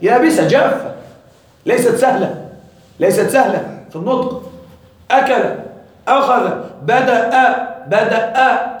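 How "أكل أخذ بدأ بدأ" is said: أكل and بدأ with a hard, caught glottal stop; hard hamza demo. Shown as a demonstration. Teacher showing how the dry hamza catches in the throat. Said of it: "تشعر ب-، بحجر هنا".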